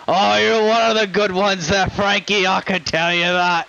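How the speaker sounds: lightly put-on matey character voice; grateful injured shopkeeper. Injured man thanks his rescuer, matey character voice. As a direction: praise a friend in character.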